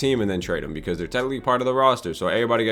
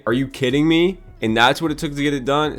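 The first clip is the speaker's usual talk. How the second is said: shocked disbelief; 5 semitones higher, 4 dB louder than usual. Real, not acted. Shocked at trade cost.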